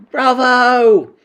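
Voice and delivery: high, loud cheer; yelling audience. A narrator's reading. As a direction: cry out in acclaim. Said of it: "yelled the audience".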